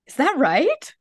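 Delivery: high, loud imitation of a Japanese conductor's accent. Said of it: "he had a very thick Japanese accent".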